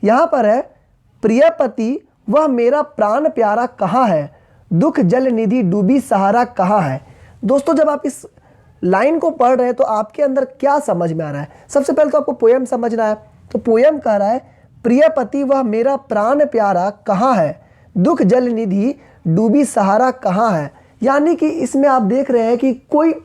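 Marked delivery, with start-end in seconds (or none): 1.2-7.0 measured verse reading with drawn-out words; poem recitation. Acted. Reads poem lines aloud. 14.9-20.7 measured verse reading with drawn-out words; poem recitation. Acted. Reads poem lines again.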